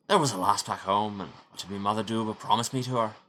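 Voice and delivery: a lightly put-on, poor Scottish lilt; bad Scottish accent. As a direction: try for Scottish, land nearer Irish. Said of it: "my Scottish accent is so bad".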